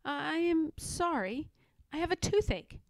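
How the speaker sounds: a touch of dismay, slowed; mildly flustered excuse. Acted. Pigling excuses himself to Pigwig, mildly dismayed. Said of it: "much dismayed".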